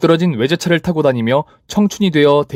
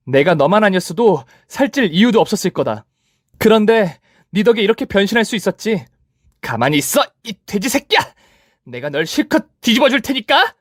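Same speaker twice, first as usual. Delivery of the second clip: higher, gleeful vengeful taunting; 8 semitones higher than usual. Acted. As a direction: take revenge while rolling her. Narrator keeps rolling her. (높게 복수심에 조롱하는 말투)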